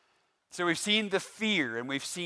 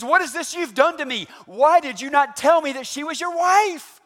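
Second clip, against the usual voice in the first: much higher, loud raging shout; furious Pharaoh; 11 semitones higher, 9 dB louder than usual. Acted. Pharaoh shouting at Abram over his wife, raging. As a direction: let Pharaoh explode at Abram. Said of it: "he said it louder than that".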